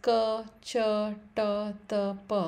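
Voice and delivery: ka, cha, ta, ta, pa without aspiration; unaspirated ka, cha, ta, ta, pa, one by one; very little breath. Shown as a demonstration. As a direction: say ka, cha, ta, ta, pa with barely a puff of air. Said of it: "it required very less breath".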